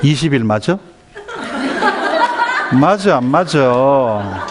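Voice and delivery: slow, drawn-out challenge; stretched testing question, mock menace; interrogating mother. Mother checking her child's answer, slow and challenging. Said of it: "확인 들어갑니다".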